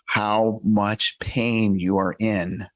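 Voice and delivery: slow, genuine sympathy. Shown as a demonstration. Demonstrating condolence to a grieving friend, slow and genuine. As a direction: offer it slowly and sincerely. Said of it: "You just gotta be genuine".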